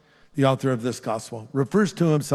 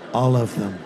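low, laughing punchline; laughing reveal; 4 semitones lower than usual. Real, not acted. Grandparent teases the grandchildren in the front row, laughing. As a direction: give the answer with a warm chuckle. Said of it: "I'm gonna now reveal".

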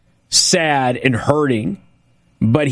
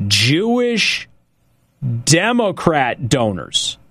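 slow and drawn out, word by word; slowly; slower than usual. Shown as a demonstration. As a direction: spell it out slowly, pausing after "Jewish". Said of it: "I'm gonna say that again slowly".

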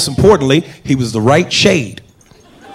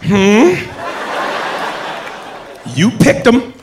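white coworker; 5 semitones higher, much slower than usual. Retold or imitated. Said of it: "looking at us like".

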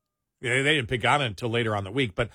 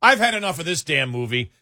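higher-pitched comic exasperation; mock fed-up outburst; 4 semitones higher, 4 dB louder than usual. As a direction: retell giving up on a movie in mock protest. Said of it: "laughing, going".

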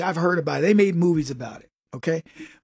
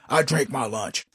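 a touch lower, flat deadpan reply; lightly voiced coworker; 5 semitones lower, 3 dB quieter than usual. Coworker refusing lunch, low deadpan. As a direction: drop it low and dry. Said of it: "he used to tell me".

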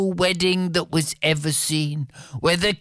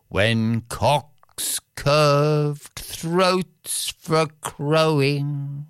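slow, measured poem reading; ballad recitation; much slower than usual. A narrator's reading. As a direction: recite it like an old ballad, very slowly.

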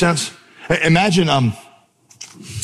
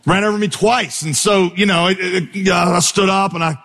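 lightly raised, hurried storytelling of an absurd excuse; tall-tale excuse; 5 semitones higher than usual. Pretend. Pastor playing the late preacher spinning a wild excuse. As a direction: sell the ridiculous story straight-faced. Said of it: "that's why I'm late".

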